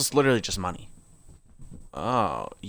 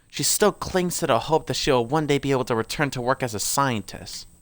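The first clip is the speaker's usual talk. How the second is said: put-on lore read aloud in an amateur British accent; 4 semitones higher, 4 dB louder than usual.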